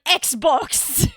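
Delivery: funny put-on voice, rising in disbelief; hammed-up mock bafflement; imitating baffled professor. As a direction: repeat it as the incredulous professor. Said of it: "not just how to say Xbox in a funny voice".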